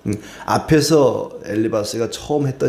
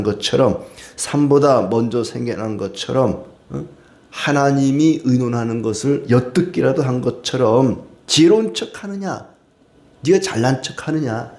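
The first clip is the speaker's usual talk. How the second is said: Eliphaz mocking rebuke; 3 semitones higher than usual. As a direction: taunt him with scornful rhetorical questions. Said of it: "엘리바스가 하는 얘기죠". (엘리바스가 욥을 비꼬며 꾸짖듯)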